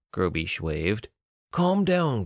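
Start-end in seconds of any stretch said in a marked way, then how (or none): 1.5-2.3 sharp rebuke. Acted. Guard snaps at comrade.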